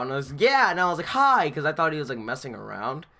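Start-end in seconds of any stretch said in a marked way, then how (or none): 0.3-0.7 high, loud startled reply; retold jumpy yelp; freaked out. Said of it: "I get freaking freaked out". 1.1-1.5 high, loud startled greeting; retold jumpy yelp; freaked out. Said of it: "I get freaking freaked out".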